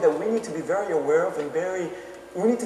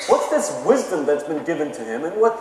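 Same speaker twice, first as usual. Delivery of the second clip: indignant crowd; 4 semitones higher than usual. Retold or imitated. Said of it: "these people are saying".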